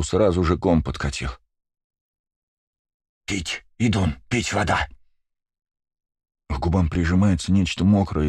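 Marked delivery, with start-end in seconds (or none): 3.2-4.9 lisping. Acted. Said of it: "Шепелявящий голос знаком".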